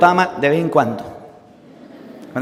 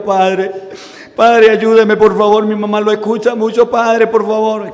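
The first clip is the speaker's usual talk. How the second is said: put-on crying boy. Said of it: "llorando, llorando, decía".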